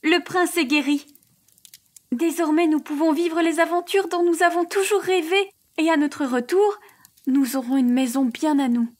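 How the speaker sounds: lightly voiced heroine, pitched high with eager excitement; excited young heroine. A narrator's reading. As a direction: Kate telling her sister their adventures begin. Kate's excited speech to sister.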